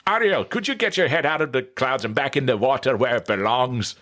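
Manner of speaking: high-pitched Jamaican crab scolding; exasperated cartoon crab with a Caribbean lilt; Sebastian. Shown as a demonstration. Voice actor imitating the crab scolding Ariel, high Jamaican voice. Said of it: "the voice of Sebastian from Little Mermaid".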